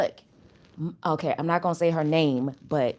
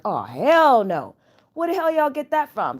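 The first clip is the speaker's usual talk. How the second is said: incredulous outburst, pitched up; retold alarm; 8 semitones higher, 5 dB louder than usual. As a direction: act out indignant disbelief, voice climbing. Retelling her alarmed reaction to device.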